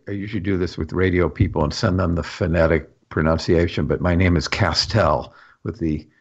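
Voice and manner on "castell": Castell with the weight on the last syllable; cas-TELL, second syllable stressed. Shown as a demonstration. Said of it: "emphasis on the second syllable".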